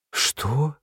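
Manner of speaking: high, soft gasped question; shocked gasp. A narrator's reading. Mother gasps in shock at the news, high and soft. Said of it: "ахнула мама".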